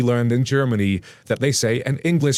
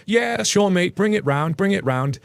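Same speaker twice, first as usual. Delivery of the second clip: jokey polite reply; 6 semitones higher, slower than usual. Retold or imitated. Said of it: "then you say".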